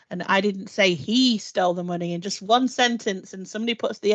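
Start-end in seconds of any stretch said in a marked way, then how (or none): 0.3-2.1 "he" stressed, the other words lighter; single out "he" with weight. Shown as a demonstration. Demonstrating email tone to colleagues, stress on "he". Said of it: "put the emphasis on a different part".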